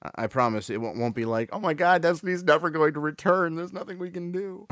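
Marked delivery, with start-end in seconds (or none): 1.5-4.7 panicked gamer. Retold or imitated. Mocking panicked players over outage.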